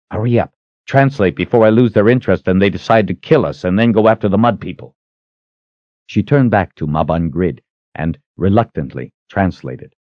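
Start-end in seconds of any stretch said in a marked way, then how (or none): 0.1-5.0 quick, slightly raised urging; pressing, hurried order; urgent command. Acted. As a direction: rush her along. Richard urges quick translation.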